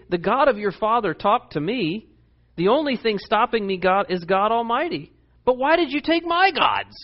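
Laban. Retold or imitated. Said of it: "He's saying".

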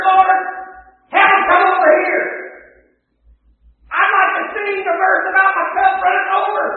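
a preacher hamming up a complaining beggar, loud; mock whiny beggar. Preacher mocking a beggar's selfish prayer, mock whine. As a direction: whine to Jesus about the handouts.

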